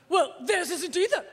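haughty, clipped put-down in a lightly voiced old lady; a hint of a snotty society matron; snotty Barbara Walters. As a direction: sniff it out like a snooty grande dame. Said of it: "really snotty".

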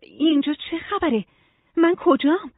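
ask, wanting to know where you are; curious questioning. A narrator's reading. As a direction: voice lifted in curiosity. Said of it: "کنجکاوانه از خانم علم پرسید".

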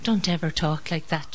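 gentle, hushed rebuke; softly spoken. A narrator's reading. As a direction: say it softly, like a mother. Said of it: "she softly said".

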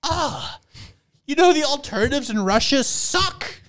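very high, whiny pleading voice; high mock voice. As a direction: squeak it out like desperate fans. Russian people voiced pleading.

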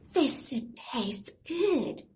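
put-on slow, savouring old lady voice; an old woman relishing a taste; sweet old lady.

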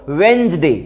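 वेंसडे said as two syllables, d silent, falling at the end; Wednesday drilled. Shown as a demonstration. Teacher drilling the class on वेंसडे. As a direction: repeat वेंसडे for the children to copy. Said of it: "क्या होता है बच्चों".

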